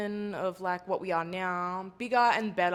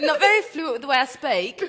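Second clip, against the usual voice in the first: loud, higher, tripping over words with laughter; laughing through fumbled speech; 5 semitones higher, 9 dB louder than usual. Real, not acted. Host owning up to poor fluency, laughing loudly. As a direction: giggle helplessly while getting the words out. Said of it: "You've got an accent".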